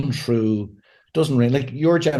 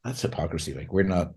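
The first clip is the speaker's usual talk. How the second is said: blunt verdict; 6 semitones lower, 7 dB quieter than usual. Retold or imitated. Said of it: "your generation going like".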